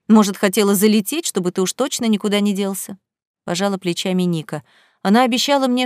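plain reading voice

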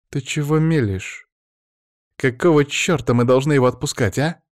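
high, forceful angry woman; tigress snarl. A narrator's reading. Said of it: "Софья зарычала на Павла, словно тигрица".

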